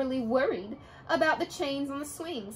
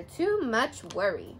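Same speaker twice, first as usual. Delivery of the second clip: grandmother's voice; 3 semitones lower than usual. Acted. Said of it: "said her grandmother".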